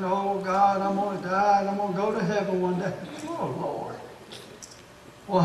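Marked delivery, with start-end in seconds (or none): 0.0-3.9 droning, hammed-up gloom; put-on mournful monotone, sighing softly at the end; mock sad. Preacher mimicking gloomy believers sad about going to heaven, mock sad. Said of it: "sad that we're going to heaven".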